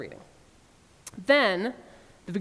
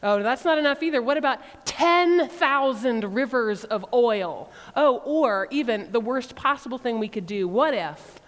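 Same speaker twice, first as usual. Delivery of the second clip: exaggerated sarcasm. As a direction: pile on the mock offers, more ridiculous each time. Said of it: "increasingly sarcastic and exaggerated".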